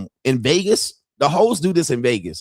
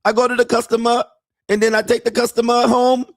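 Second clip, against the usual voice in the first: put-on high, broken-English Thai girlfriend voice; mock Thai accent; 10 semitones higher, faster than usual. Mocking Thai girlfriend asking her man for money in a high accented voice. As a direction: imitate a Thai bar girl pleading for money.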